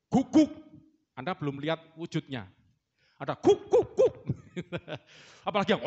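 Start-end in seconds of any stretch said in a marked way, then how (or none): 0.1-0.5 high, loud yappy guguk; dog bark imitation. Shown as a demonstration. Preacher shows the congregation how a dog sounds, yapping. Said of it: "kasih contoh aja". 3.2-4.1 high, loud yappy guguk; dog bark imitation. Shown as a demonstration. Preacher shows the congregation how a dog sounds, yapping. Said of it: "kasih contoh aja".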